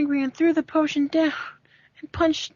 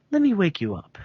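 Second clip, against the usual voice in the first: lightly voiced villain; 6 semitones lower than usual. Villain David speaks.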